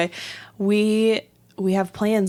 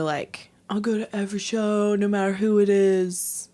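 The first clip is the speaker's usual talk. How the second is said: whisper. Real, not acted. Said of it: "whispered aside".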